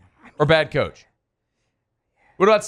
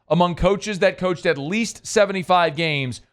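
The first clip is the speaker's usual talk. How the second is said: slow repeat. Shown as a demonstration. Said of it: "say that again slowly".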